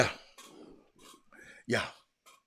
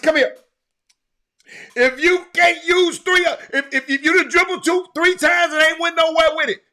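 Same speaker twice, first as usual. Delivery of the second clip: coach yelling; 9 semitones higher, 8 dB louder than usual. Retold or imitated. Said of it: "I said".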